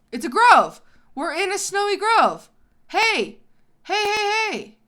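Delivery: loud, high, thrilled yelling at the discovery; excited shouting. Real, not acted. Gamer spotting a snowy grove, shouting excitedly. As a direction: call out to the wolf, bursting with excitement.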